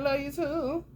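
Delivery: sarcastic love you too, pitched slightly up. Shown as a demonstration. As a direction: toss it back sarcastically. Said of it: "I say it real sarcastic".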